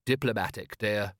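meekly dutiful husband; understated henpecked compliance. Acted. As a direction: answer like a resigned, obedient husband. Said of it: "You're using your henpecked voice".

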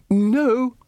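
lightly voiced wizard refusal; firm no. A narrator's reading. Ridcully voiced.

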